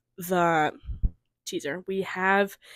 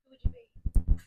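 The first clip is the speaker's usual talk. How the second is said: a much lower, menacing "Who would you be?"; deep Armand line. Retold or imitated. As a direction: drop the voice low and loom over the question. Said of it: "we have the "Who are you, Louis?" teaser".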